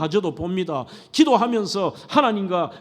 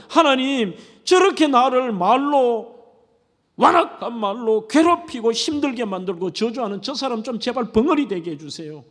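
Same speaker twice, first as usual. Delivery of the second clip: pleading complaint; 4 semitones higher than usual. Retold or imitated. Preacher voicing a believer who begs God against enemies, pleading and bitter. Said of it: "하나님 앞에 이런 거예요".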